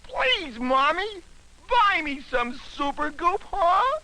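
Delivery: put-on high, whiny begging child; kid voice. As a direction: nag mommy like a little kid. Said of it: "Can't you hear those kiddies now?".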